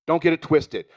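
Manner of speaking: repeated warning, punched loud. Acted.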